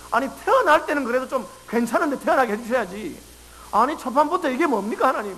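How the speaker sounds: a touch of exasperated protest to the father; mock complaint. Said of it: "그 마음을 뒤집어 생각해보면". (하나님께 투정 부리듯 가볍게 항의하는 말투)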